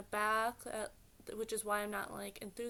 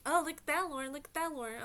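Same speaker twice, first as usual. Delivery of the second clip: imitating eager mom; 5 semitones higher, 4 dB louder, faster than usual. Mom eagerly pointing something out.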